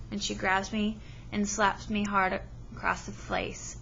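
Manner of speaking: steady read-aloud storytelling to a class; story narration. Acted. Teacher reading a novel to her class, storytelling voice. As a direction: read the chapter to the students, even and clear.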